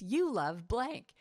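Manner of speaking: said back slowly, rising at the end; a partner slowly mirroring the line back; slow echoing repeat. Shown as a demonstration. Partner in the exercise slowly repeats it back, rising. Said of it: "And the person repeats".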